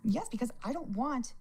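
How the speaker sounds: holding back tears as she speaks; near tears. Real, not acted. Fears son losing his dad.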